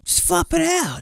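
high nasal cartoon squid voice; squidward voice. Squid character ordering a coworker, high cartoon voice.

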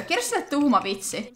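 normal talking voice

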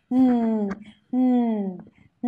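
"Ừ" held in the throat without letting air out; held-in throat sound. Shown as a demonstration. Teacher shows students the consonant, held-in throat sound. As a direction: hum "Ừ" with the breath stopped in the throat. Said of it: "chỉ ở trong họng của chúng ta thôi".

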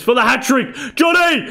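rising to a big shout on the name; excited yell. Real, not acted. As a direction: yell the name as the shot goes. Shooting for hat trick, yelling.

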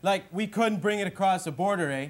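exaggerated Canadian hoser drawl, eh; Bob McKenzie hoser voice. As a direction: play the dopey Canadian brother hosting his bit. In character.

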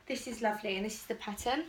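slightly winded talking; out of breath. Real, not acted. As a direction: speak a bit short of breath. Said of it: "I'm already out of breath".

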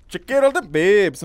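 put-on frat boy voice. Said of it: "sound like a frat boy".

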